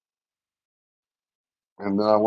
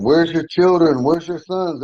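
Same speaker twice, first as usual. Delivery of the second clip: higher-pitched, half-shouted demand; retold screaming; 7 semitones higher, 3 dB louder, slower than usual. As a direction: imitate officers calling out while searching. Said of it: "They're screaming at me".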